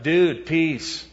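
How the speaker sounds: casual dude greeting. Retold or imitated. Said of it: "It was not just like".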